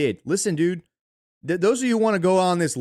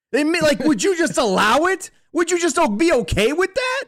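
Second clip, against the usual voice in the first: high, incredulous challenge to the listener; indignant disbelief; 11 semitones higher, 4 dB louder than usual. Real, not acted. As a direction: throw the questions up high, outraged. Indignant rhetorical questions to audience.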